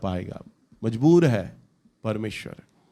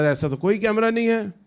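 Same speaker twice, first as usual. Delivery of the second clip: higher-pitched acted denial; indignant denial; 6 semitones higher than usual. Preacher voices the friend denying there is any camera, indignant. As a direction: play the friend protesting innocence.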